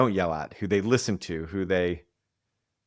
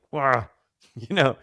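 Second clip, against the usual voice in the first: mock whine, pitched higher and louder; whiny defensive self; 7 semitones higher, 4 dB louder than usual. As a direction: whine like a sulky kid dodging a chore. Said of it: "The defending the shame is gonna be like".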